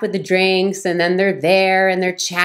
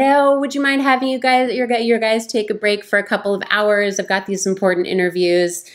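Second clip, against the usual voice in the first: sweet, higher start easing down; good vibes; 4 semitones higher than usual. Retold or imitated. Woman texting the boss with good vibes, sweetly. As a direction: send sweetness through the words. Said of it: "I sent this good vibes".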